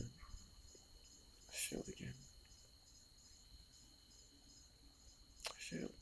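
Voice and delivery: very soft, slow, tear-choked whisper; fading words that barely get out; broken whisper. Real, not acted. Grieving, barely able to speak.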